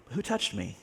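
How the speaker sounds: a soft, searching question. Shown as a demonstration. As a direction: ask it quietly, almost to himself. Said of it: "I don't know how soft it was".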